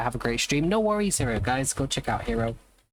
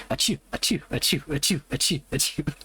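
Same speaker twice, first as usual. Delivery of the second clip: mock machine-gun sneezes. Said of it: "machine gun sneezes".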